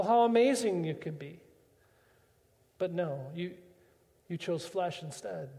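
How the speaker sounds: soft, sighing lament, mostly hushed; God grieving quietly over lost children; sighing regret. Acted. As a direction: let each line fall away in a heavy sigh. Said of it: "sighs this deep sigh".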